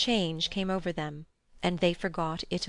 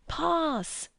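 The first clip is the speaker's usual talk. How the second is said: shout; 10 semitones higher than usual. A narrator's reading. Boys shouting in a game.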